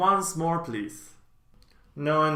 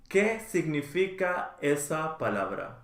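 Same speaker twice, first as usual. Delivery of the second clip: slow model. Shown as a demonstration. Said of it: "teacher models phrase twice".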